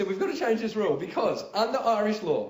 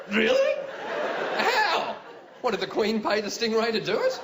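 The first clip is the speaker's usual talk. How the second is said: incredulous disbelief; 3 semitones higher than usual. Retold or imitated. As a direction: squeak out your disbelief. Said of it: "I was like".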